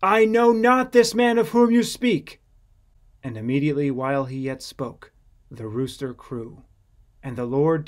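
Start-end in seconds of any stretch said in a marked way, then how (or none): 0.0-2.4 much higher, louder frantic denial; loud, panicked oath; cursing denial. Acted. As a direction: swear it out in desperation. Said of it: "began to curse and to swear".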